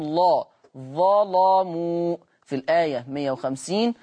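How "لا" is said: ordinary talk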